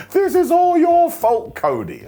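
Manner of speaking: slow, high, loud shout. Retold or imitated. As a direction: yell the blame at him slowly. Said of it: "where Solo just shouted".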